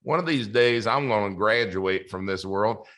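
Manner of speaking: a modest attempt at a Southern accent; Nelson Nash. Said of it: "I can't do a great Southern accent".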